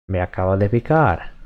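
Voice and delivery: Me acaba de picar said fast, run together like everyday speech; quick natural speed. Shown as a demonstration.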